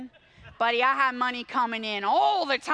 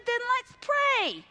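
firm dad; 11 semitones higher, 4 dB louder, slower than usual. Retold or imitated. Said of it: "He said".

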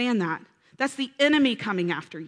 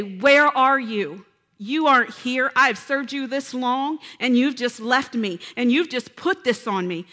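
louder, slowed, wounded complaint to God; accusing God, complaining believer; 4 dB louder than usual. Retold or imitated. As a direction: play the hurt believer blaming God.

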